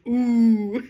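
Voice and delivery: mock teasing crowd ooh; drawn-out teasing ooh. Crowd teasing Amy for refusing, mock ooh. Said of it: "and the entire crowd goes".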